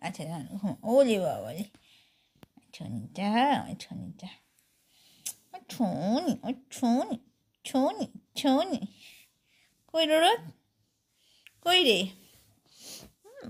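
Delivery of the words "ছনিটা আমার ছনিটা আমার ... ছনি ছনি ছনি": cooing. Real, not acted. Cooing softly to pet.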